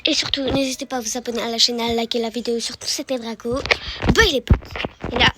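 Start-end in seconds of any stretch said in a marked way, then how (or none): 0.1-2.6 outro launched loud, then settling; usual video outro. Shown as a demonstration. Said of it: "Enfin, de base, je fais". 4.1-4.6 high, loud goodbye to viewers; loud sign-off. Shown as a demonstration. Signing off to viewers.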